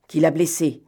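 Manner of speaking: exasperated leader snapping at his accomplice. Acted. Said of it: "demanda Lupin, exaspéré".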